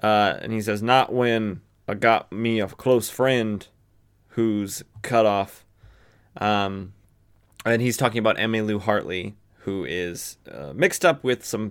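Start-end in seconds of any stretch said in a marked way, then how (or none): 0.8-5.6 slow Southern drawl; Jonah Hex. Acted. Jonah explaining about a close friend, Southern accent. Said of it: "trying to give him a Southern accent".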